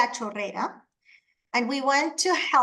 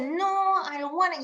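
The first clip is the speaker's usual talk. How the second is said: put-on whiny little boy; 5 semitones higher than usual. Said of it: "little boys started like".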